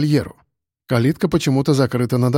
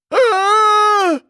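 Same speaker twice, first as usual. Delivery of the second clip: high, long terrified howl; panicked wail; 4 dB louder than usual. Acted. A man grabbed by a dog howls in panic, high-pitched wail. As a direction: let out a hammed-up shriek of terror. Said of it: "Блажит Ильич".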